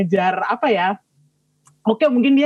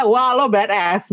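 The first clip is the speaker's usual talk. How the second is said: laughing admiration; slower than usual. Retold or imitated. Fan admiring the character, laughing.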